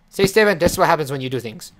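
loud telling-off; mock-parental reprimand, loud; scolding. Lecturing animal about misbehaviour.

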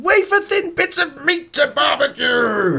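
loud, slow, thrilled shout; big happy exclamation; excited. Real, not acted. Excited about new meat slicer.

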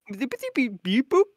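high, loud beeping; robot beeps. Acted. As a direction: chirp like a robot. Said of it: "he doesn't speak Eng".

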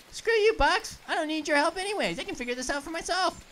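loud mock scolding, fast; mock angry. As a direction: tell off the box, huffy. Mock tirade at box.

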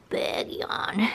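whispered. Real, not acted. Cat yawning, she whispers.

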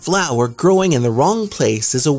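a hint of a chirpy young bird, lecturing; Bluebird voice. A narrator's reading.

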